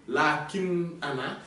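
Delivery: lakin ana spelled out slowly, each word apart. Shown as a demonstration. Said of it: "on enlève le a de ana". (lakin ana détaché, lentement)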